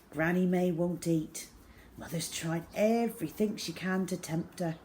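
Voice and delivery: ordinary delivery, nothing marked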